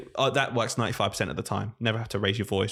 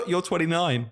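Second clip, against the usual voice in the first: higher, mock-amazed child's exclamation; imitating excited children; 5 semitones higher than usual. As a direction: gasp it like an amazed kid. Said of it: "they're really excited by it".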